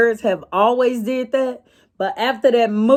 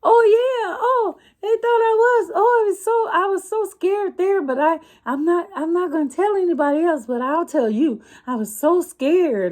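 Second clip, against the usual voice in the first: put-on high squeaky little boy voice, half laughing; imitating the kid; 8 semitones higher than usual. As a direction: play an excited, scared little boy spilling a secret. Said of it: "he was just like".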